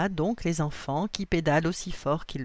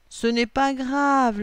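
slow, raised, upbeat comfort; reassuring; 7 semitones higher, 6 dB louder, slower than usual. A narrator's reading. William comforts Lily about the hat, reassuring. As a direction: reassure brightly, drawn out and louder. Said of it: "la rassure William".

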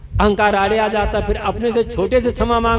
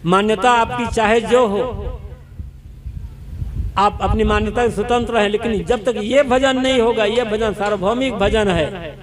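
normal talking voice

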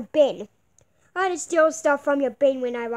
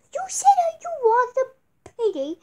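much higher, exasperated complaint; 9 semitones higher, 4 dB louder than usual. Acted. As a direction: pitch up in disbelief. Exasperated, high pitched.

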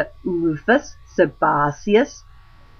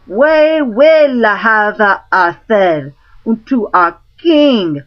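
crowd crying out; 5 semitones higher, 4 dB louder than usual. Acted. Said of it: "all the commons cried at once".

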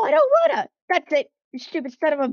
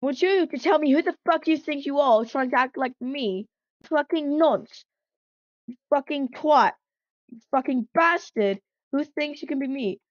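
angry engine; 3 dB louder than usual. Acted. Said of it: "he seemed really angry".

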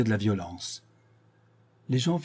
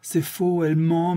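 higher, pleading protest; desperate accused; 7 semitones higher, 5 dB louder than usual. A narrator's reading. Séraphin defending himself before the court, higher and urgent. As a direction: plead innocence to the jury.

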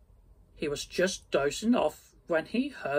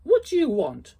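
higher, louder grumpy miser; grumpy old Scrooge; 8 semitones higher, 8 dB louder than usual. Acted. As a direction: bark it at the nephew like an old miser. Grumpy Scrooge answers his nephew.

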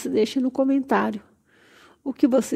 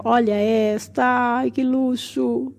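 drawn-out gushing; slower than usual. Real, not acted. Gushing over a new plant.

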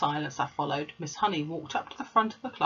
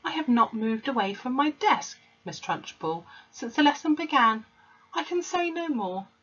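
total calmness; 8 semitones higher, 3 dB louder than usual. A narrator's reading. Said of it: "said with total calmness".

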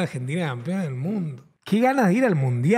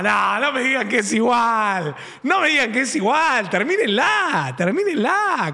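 real protest. Real, not acted. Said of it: "protests accent comparison".

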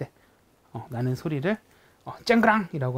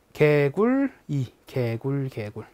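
frog croak demo; 2 semitones lower, much slower than usual. Shown as a demonstration. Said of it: "그래서 개구리라고 하는 것 같아요".

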